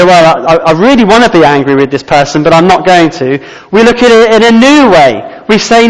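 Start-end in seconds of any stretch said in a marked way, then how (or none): 0.0-3.4 miserable reluctance. Retold or imitated. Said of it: "miserable way and say".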